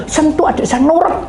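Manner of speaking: high, insistent mock prayer; pushy demonstration of praying at someone; wrong, demanding prayer. Shown as a demonstration. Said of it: "Jangan, saudara, bahaya".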